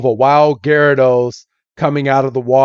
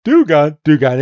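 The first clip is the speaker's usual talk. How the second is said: creature call. Retold or imitated. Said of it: "comes up right behind them and is like".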